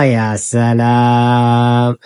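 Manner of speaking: a long, playful gasp of admiration; drawn-out admiring wow. Real, not acted. Mother teasing her daughter over her hair, slow drawn-out admiration. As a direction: stretch the ya very slowly in mock awe.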